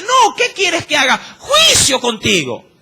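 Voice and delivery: lightly voiced God scolding. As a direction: speak as God losing patience. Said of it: "Dios ... dice".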